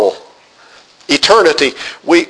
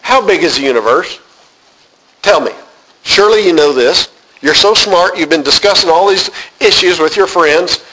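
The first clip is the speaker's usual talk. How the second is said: sarcastic God. Retold or imitated. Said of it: "It was almost sarcastic".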